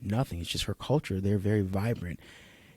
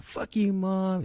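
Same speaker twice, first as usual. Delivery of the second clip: mock rude teen; 9 semitones higher, 3 dB quieter, much slower than usual. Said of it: "like a".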